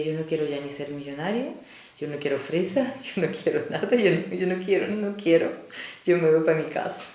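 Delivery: half-laughing retold tearful complaint; lightly voiced weepy despair, laughing through it; tearful whine. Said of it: "ya estaba yo llorando".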